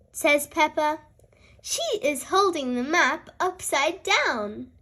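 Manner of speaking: lively picture-book read-aloud; reading to children. A narrator's reading. Reading a story aloud to young children, lively and clear. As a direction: read it brightly for little listeners.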